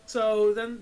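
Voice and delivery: normal talking voice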